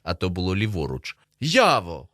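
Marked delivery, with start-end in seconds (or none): 1.4-2.1 louder, annoyed call; irritated shout. A narrator's reading. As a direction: snap the name out loudly. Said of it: "роздратовано кричу я".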